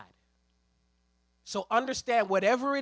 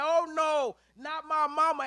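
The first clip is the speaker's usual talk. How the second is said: louder, higher alarmed cry; mock protective outburst; rising alarm; 5 semitones higher, 5 dB louder than usual. Lambert seeing his mother grabbed, louder alarmed cry. Lambert sees mama seized.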